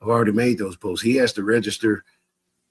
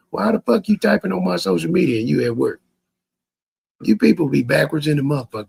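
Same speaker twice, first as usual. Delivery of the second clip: exasperated; 6 semitones higher, 3 dB louder than usual. Real, not acted. Angry rant at commenter.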